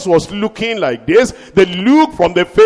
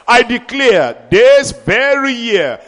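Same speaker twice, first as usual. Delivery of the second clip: emphatic declaration; 5 semitones higher, 4 dB louder than usual. Acted. Preacher declaring loudly.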